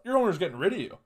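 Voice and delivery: cocky talk-down to a dog, pitch climbing; mock alpha attitude. Sizing up the stupid dog, mock alpha swagger. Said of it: "my energy was like".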